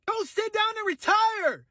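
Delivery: ranting streamer shouts at Pelosi to retire; shouted order. Real, not acted. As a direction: yell it at her to get off stage. Yelling at Nancy Pelosi.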